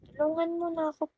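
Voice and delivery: high, fast, begging rush; begging a viewer named Pipino for help, high and rushed; playful pleading. Real, not acted.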